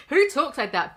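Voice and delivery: Who punched high and loud; loud, baffled exclamation; incredulous outburst. Real, not acted. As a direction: fire it out in disbelief. Mocking the wording.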